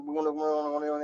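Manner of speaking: softly hummed gun gun gun, mumbling through the prayer; mumbled humming. Shown as a demonstration. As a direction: show the lazy murmur of humming words. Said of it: "गण गणते नहीं बोलना".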